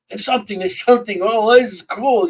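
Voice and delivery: imitating the rush of spotting something on the footage; excited discovery. Investigator reliving a find on the camera, excited. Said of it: "'cause you get all excited".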